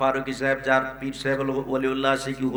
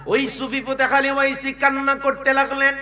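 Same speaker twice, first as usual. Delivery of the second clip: melodic preacher's storytelling; ringing sermon cadence; high intoned narration; 12 semitones higher, 7 dB louder than usual. A narrator's reading. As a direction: chant the story at raised pitch.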